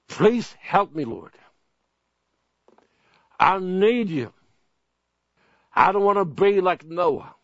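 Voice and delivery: earnest prayer, rising in pitch as it goes on; a sermon's sample prayer, said with mounting urgency; pleading prayer demo. Shown as a demonstration. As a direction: lead the flock in a pleading prayer to God. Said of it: "and you say this".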